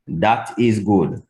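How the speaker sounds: "That" said with a D, like "Dat"; slow "That is good", TH turned to D. Shown as a demonstration. Teacher shows TH-to-D change for students, slowly. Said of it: "change a T H to a D".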